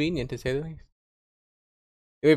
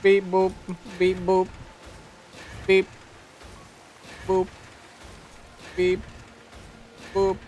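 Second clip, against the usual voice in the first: toy robot voice; 4 semitones higher, 6 dB quieter than usual. Pretend. Imitating robot noises.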